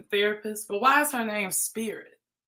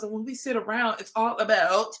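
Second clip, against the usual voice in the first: mock Canadian accent on "about"; Trina's Canadian accent. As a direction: slip into a put-on Canadian accent at the end. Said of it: "A Canadian accent".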